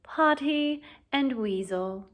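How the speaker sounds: slow sneering drawl, lazy and mocking. Malfoy mocks Harry and Ron with a lazy drawl. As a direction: sneer the names out slowly. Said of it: "in his usual lazy drawl".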